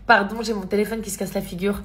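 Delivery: slight lisp from clear aligners. Real, not acted. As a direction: talk with a retainer in. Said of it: "je zozote encore avec mes gouttières".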